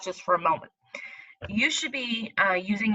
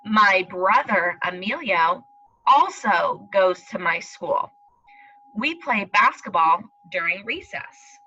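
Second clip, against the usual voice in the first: put-on slow storybook reading to children; reading aloud; slower than usual. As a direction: read it slowly, like to little kids. Teacher reads story aloud.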